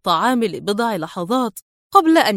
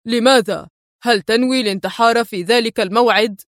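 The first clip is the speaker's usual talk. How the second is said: edgy and tense, mildly agitated; a touch of nervous irritation. Acted. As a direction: ask sharply, rattled. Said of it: "قال الشاب في عصبية".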